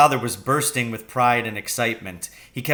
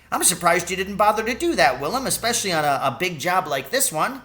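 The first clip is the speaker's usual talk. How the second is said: put-on quicker, lightly raised old poacher's voice; knowing old Charlie; 5 semitones higher, faster than usual. Old cabbie boasting poaching tricks to Willem, quick knowing voice. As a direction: rattle off poaching tricks like a cheeky old hand.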